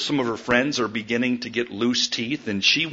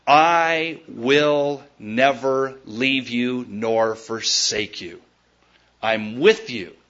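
tender promise; 4 semitones lower, much slower than usual. Acted. Quoting God's promise.

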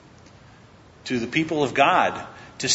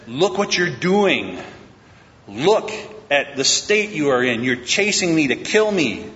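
higher, emphatic confrontation; pleading rebuke; 4 semitones higher than usual. Acted. David confronting Saul out of love, pleading rebuke. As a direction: press each point home in earnest reproach.

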